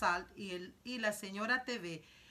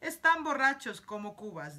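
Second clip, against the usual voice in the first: exclamación alegre; 8 dB louder than usual. Acted. Wonka exclaims about drunk workers.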